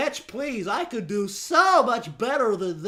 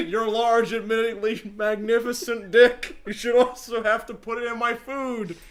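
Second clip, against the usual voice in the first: John's voice; 3 dB louder than usual. Acted. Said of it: "do the voice".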